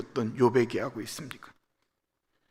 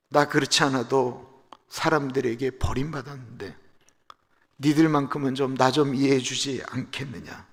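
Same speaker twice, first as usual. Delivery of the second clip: pleading request. Retold or imitated. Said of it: "친구들에게 부탁합니다".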